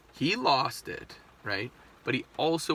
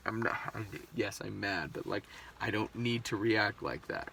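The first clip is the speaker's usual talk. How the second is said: calmed-down self-talk; 3 semitones lower, 7 dB quieter than usual. Retold or imitated. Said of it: "then I came down and was like".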